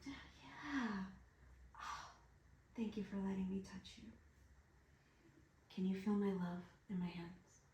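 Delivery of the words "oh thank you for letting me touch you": fast whisper. Real, not acted. Whispering thanks to partner.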